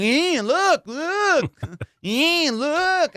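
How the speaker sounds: high, pleading look look; urgent insisting. Retold or imitated. Showing the co-pilot the gas meter, high urgent pleading. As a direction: beg him to watch the meter.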